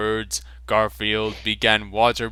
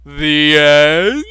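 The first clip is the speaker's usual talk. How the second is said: dramatic ending; 4 semitones higher, 10 dB louder than usual. Acted. Ending the read fanfic.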